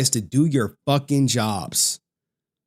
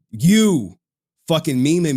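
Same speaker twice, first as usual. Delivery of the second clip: loud, higher-pitched yelled you; angry shout; 4 semitones higher, 5 dB louder, slower than usual. Real, not acted. Streamer yelling at Waldo for memeing him, angry shout. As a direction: hurl the word at the troll.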